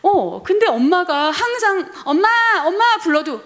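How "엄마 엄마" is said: put-on high, loud little child calling mom. Child calling for busy mom, high and loud. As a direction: call for mom like a small kid.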